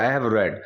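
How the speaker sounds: "read" said as red, past form; read as past tense. Shown as a demonstration. Teacher showing past tense, "read" said like red. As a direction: say "read" like red, not reed. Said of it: "इसकी pronunciation change हो जाती है".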